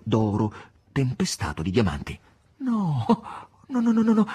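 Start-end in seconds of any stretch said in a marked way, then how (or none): 2.6-4.3 mock protest, higher and louder with each no; playful refusal. Voland refusing to take the gift back, playful protest. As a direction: brush the idea away with rising insistence.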